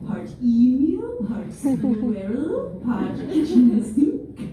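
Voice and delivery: slow listing. Retold or imitated. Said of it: "she's making stuff up".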